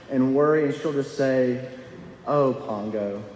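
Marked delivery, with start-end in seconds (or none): 2.2-3.2 low, weary sigh of a name; a worn-out mother dog giving up; defeated sigh. Retold or imitated. Purdy to Pongo, defeated and low. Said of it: "with such a defeated tone".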